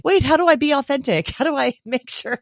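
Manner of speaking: high, puzzled and laughing; a hint of comic panic; mock bewildered. Quoting confused people.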